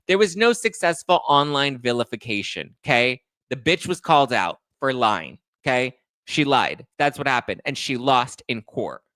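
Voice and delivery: heated, emphatic correction; indignant rebuttal. Real, not acted. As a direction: hammer each short sentence home. Angry rebuttal of the article.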